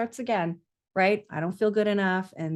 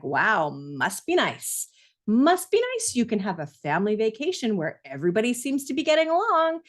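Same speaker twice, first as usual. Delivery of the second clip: sarcastic envy; 3 semitones higher than usual. Retold or imitated. A parent scrolling social media, mock envious sneer. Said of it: "been like".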